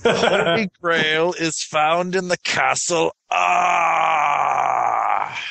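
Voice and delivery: grand, drawn-out mock Londo, ending in a shout. Podcaster hamming his Londo voice for the others, high and slow. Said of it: "That is your Londo voice".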